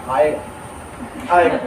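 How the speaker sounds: whispered, very low and dragged out; a husband dodging his wife, whispered; evasive whisper. Retold or imitated. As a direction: mumble it away low and slow. Husband dodging wife's demand.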